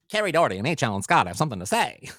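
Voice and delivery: loud, fast newsreel announcer; old-time news announcer. Pretend. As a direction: rattle it off like fifties radio news. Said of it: "old-time news announcer doing his thing".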